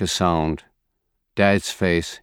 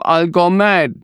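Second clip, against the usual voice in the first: screaming; 10 semitones higher than usual. A narrator's reading. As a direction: scream it in grief. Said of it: "She screams".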